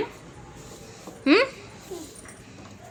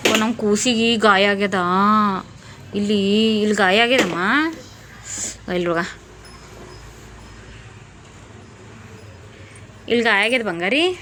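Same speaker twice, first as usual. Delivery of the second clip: tender concern; 6 semitones lower, 3 dB quieter than usual. Real, not acted. Parent fussing over child's hurt. (ಮಗುವಿಗೆ ಮುದ್ದಾಗಿ, ತಗ್ಗಿದ ದನಿಯಲ್ಲಿ ಕಾಳಜಿ)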